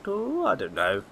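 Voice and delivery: lightly voiced gossiping old woman; chatty old neighbour, a touch shrill; old lady voice.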